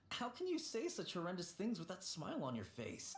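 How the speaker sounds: nervous laugh at a dark joke; laughing disbelief. Real, not acted. Ghost laughing at the director's grim joke. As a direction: laugh through the words.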